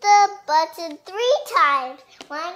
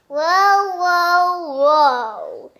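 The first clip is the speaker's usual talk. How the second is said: excited whoa; 2 semitones higher, 6 dB louder, much slower than usual. Acted. Reading an excited character aloud.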